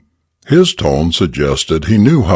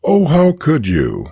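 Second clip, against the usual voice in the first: high, tearful reproach; sobbing; 9 semitones higher than usual. Acted. Mother sobbing at her son over his gambling loss. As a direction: sob the question out to your son. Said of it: "sobbed the mother".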